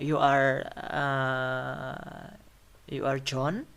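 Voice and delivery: hesitant start, then "John" rises to confirm; rising tone. Shown as a demonstration. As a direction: swing "John" up as a checking question. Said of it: "we will use rising tone".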